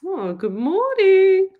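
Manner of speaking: high, drawn-out good morning; slow, loud, lilting hello; singsong greeting. Real, not acted. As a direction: sing out a long, lifted good morning.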